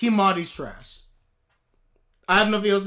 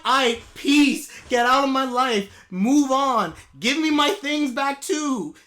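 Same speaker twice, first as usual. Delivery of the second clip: dismissive send-off; 4 semitones higher, 6 dB louder than usual. Pretend. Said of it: "I'd be like".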